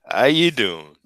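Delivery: careful Brooklyn accent on "How you doing". Shown as a demonstration. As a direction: lean into a New York Brooklyn twang. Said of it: "I gotta concentrate".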